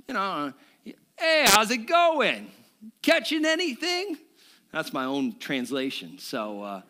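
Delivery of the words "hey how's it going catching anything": a mock yell to the fishermen from the beach; calling out. Jesus calls out loudly from the shore to Peter. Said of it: "yells out to Peter".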